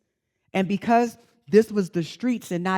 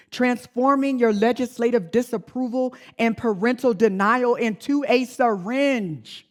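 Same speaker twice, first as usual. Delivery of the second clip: higher, forceful rhetorical question; impassioned challenge; 4 semitones higher than usual. Real, not acted. Speaker confronts audience about street hormones, impassioned. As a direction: build it as an urgent, pointed challenge.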